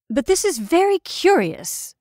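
a keen excited cry; cried out. A narrator's reading. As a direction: burst out with curiosity. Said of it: "I cried at last".

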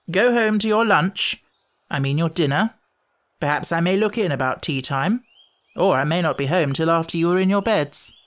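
lightly voiced lofty young gentleman; condescending grown-up Lamb. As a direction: dismiss the children with airy condescension.

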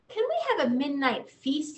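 a mild wailing plea; the boy begs the moon, a touch of a wail. Acted. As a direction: lightly wail the question up. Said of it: "he wailed".

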